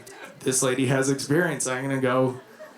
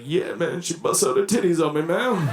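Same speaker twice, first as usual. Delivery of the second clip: gangsta voice. Retold or imitated. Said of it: "try and sound gangsta about it".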